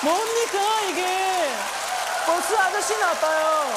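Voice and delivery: very high, loud put-on indignation; mock outraged shout. Worker complaining about the bus driver, mock fury. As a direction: wail the complaint over the top.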